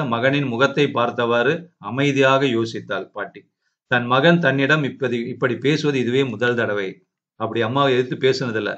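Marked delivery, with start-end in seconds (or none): none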